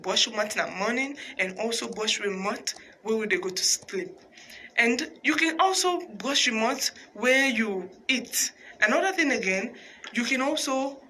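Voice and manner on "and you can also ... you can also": laughing through the words; laughing while talking. Real, not acted. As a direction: chuckle as you give advice. Host laughs mid-advice.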